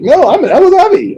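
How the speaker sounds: high laughing retort; laughing reply. Retold or imitated. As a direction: laugh through the correction. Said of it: "She's like".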